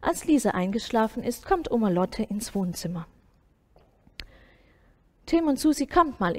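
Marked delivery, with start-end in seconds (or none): 5.2-6.4 calling out. A narrator's reading. Grandma calls the kids over.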